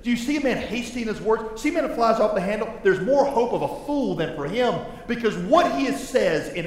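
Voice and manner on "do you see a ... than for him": preached quote. Retold or imitated. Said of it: "Proverbs twenty-nine twenty says".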